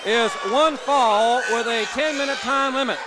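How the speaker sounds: booming ring announcer introduction, stretching the names. Acted. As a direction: announce the fighters to the arena.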